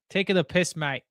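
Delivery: mock Aussie twang; light put-on Australian accent. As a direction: slip into a jokey Australian accent. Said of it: "I'm going into my Australian accent".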